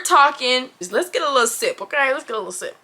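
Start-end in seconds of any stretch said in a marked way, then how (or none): 2.1-2.8 softer repeat. Real, not acted. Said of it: "sip aside".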